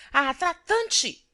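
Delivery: very slow, loud, high insult; the matron's last angry cry against Crispim; drawn-out furious cry. A narrator's reading. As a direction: drag the word out in full fury. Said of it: "Nas explosões da cólera".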